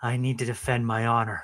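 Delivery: put-on breathy raspy voice. Describing how a character sounded, then imitating him: breathy Zuko voice. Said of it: "a breathy voice, like".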